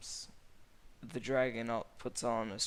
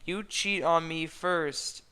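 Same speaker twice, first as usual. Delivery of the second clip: crying; 6 semitones higher, 8 dB louder, slower than usual. A narrator's reading. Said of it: "Fiona cry".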